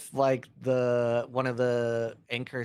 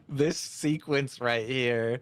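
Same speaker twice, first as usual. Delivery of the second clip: laughing; slower than usual. Real, not acted. Laughing at a wild play.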